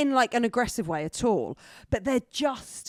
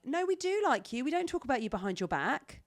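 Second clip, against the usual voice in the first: put-on mean girl voice; 3 semitones higher than usual. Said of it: "You sounded like a mean girl at school".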